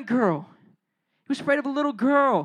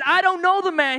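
higher, emphatic mock-angry denial; cursing denial; 5 semitones higher, 3 dB louder than usual. Peter swearing to the crowd, acted angry denial. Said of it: "began to call down curses".

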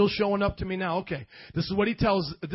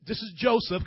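ordinary delivery

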